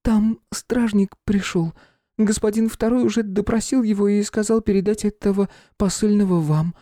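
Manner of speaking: put-on a scared servant girl about to cry; near tears. A narrator's reading. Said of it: "проговорила она, едва не начиная плакать". (почти плача)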